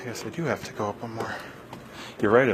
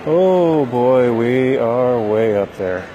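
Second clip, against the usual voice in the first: excited; 3 semitones higher, 11 dB louder, much slower than usual. Real, not acted. Looking down from the top deck.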